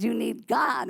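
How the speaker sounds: mild mock scream. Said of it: "So she just screamed".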